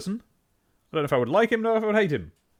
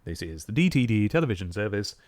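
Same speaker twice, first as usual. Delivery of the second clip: lightly put-on BBC-style announcer, lower pitched; TV continuity announcer; 5 semitones lower than usual. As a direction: announce the channel with measured formality. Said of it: "I'm doing that voice".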